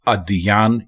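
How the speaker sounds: ادیان as "a-di-yaan", open a, slow; ادیان with zabar on alif; correct pronunciation. Shown as a demonstration. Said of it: "یہ درست ہے".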